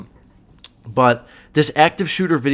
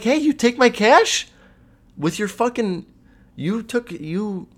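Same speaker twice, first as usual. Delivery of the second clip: mock angry yell; 10 semitones higher than usual. Picturing yelling at the star who cost him money, mock furious. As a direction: rise up in mock outrage, then trail off. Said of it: "I would be like".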